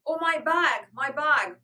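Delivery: loud, high wail of distress; wailing child. A narrator's reading. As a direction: wail it like a crying little girl. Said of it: "cried Francie in a wail of distress".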